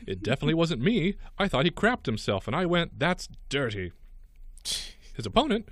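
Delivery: animated read of a silly sports story; lively radio news delivery; news read with quotes. Acted. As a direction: read the players' quotes with mock earnestness.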